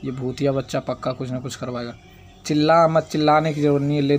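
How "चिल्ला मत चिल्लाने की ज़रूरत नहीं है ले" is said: sharp, louder telling-off; exasperated rebuke to a wailing baby; scolding. Acted. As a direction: shut the baby up, stern and loud.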